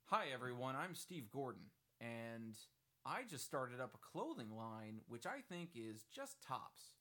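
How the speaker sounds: lightly voiced upbeat Steve Gordon; Steve Gordon impression. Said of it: "my legitimate Steve Gordon impression".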